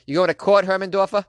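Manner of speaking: put-on taunting in a Boston accent. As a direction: needle him like a Boston local. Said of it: "sound great with a Boston accent".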